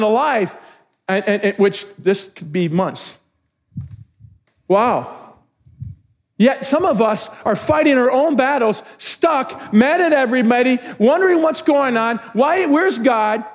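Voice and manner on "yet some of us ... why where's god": raised, emphatic preacher's delivery; impassioned preaching. Real, not acted. Pastor describing believers stuck in battles, impassioned preaching. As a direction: preach it with urgency.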